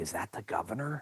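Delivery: quiet, soft, subdued, hushed voice. Retelling what the youngest daughter asked in the car: imitating a quiet voice. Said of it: "kinda got all quiet and goes".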